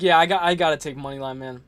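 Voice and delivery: normal talking voice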